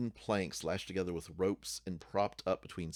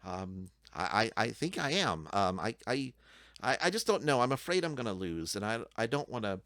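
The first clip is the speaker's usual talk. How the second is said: nervous goblin. Acted. Goblin voices his fear.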